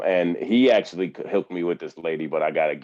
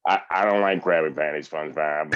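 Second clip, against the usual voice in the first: a hint of grumpy Squidward; sulky Squidward, barely off his own voice; lightly voiced Squidward; 4 semitones lower than usual. Dad doing Squidward for his daughter, lightly voiced. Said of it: "I used to do Squidward".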